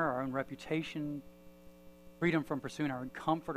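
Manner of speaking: measured, subdued public prayer. Real, not acted. Preacher asking the Lord for freedom for everyone, prayerful. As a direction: pray aloud for the room, phrase by phrase.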